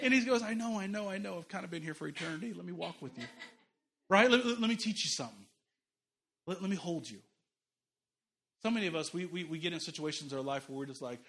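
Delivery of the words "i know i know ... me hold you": calm reassuring God. Acted. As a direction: answer the screaming child gently. God answers calmly.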